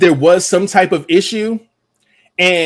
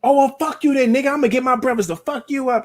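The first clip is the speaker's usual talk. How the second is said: put-on much higher girl's voice, a light angry threat; mock angry girl; 10 semitones higher than usual. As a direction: threaten him with her brothers, pitched way up. Girl retold, angry at him.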